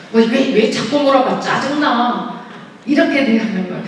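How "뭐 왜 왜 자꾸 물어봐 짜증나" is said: mock-irritated snapping back; a blunt, grumpy husband brushing off his wife; curt, blunt. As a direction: brush off the question, annoyed and curt. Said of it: "퉁명스럽게".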